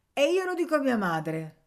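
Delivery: I'll tell on you; tattletale threat. Acted. (minaccia infantile, molto più alta e forte)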